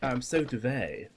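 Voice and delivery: slowed, mock-fancy French accent on Devey; pretentious French accent. Mocking the fancy way to say the name, in a lightly pretentious French accent. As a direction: put on a snooty French accent as a joke. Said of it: "I don't know why I did that accent".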